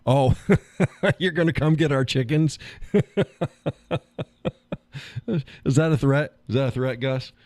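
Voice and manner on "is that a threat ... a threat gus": mock outrage. Mock outrage at chicken thief.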